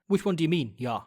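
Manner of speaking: put-on light South African accent, casual; breezy South African accent, offhand question. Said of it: "only in a South African accent".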